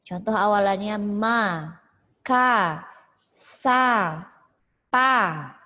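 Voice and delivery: each prefix ma, ka, sa, pa said loud and separate; listing prefixes. Shown as a demonstration. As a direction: spell out ma, ka, sa, pa one by one. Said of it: "kalau misalnya ada awalan". (menyebut awalan satu per satu)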